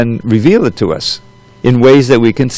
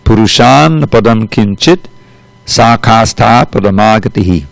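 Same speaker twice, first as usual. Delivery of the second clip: scripture reading. Acted. Teacher reading the purport to students, formal reading voice. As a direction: read the holy text steadily to the class.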